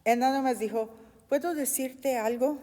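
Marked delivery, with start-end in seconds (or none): 1.3-2.6 softer, polite request; calm, unthreatening. Retold or imitated. Preacher voices Paul asking the commander, calm and polite. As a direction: ask it gently, without any threat. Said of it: "Pablo no estaba gritando, no le estaba amenazando".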